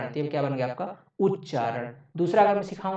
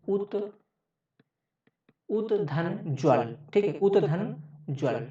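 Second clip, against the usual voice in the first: slow sounding out; 3 semitones higher, slower than usual. Shown as a demonstration. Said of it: "teacher sounds out split".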